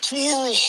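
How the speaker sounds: "Coral" drawn out high like Rick Grimes says "Carl". Retold or imitated. Voice note to a date, "Coral" in Rick Grimes' drawn-out pronunciation. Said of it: "the way he pronounces his son's name".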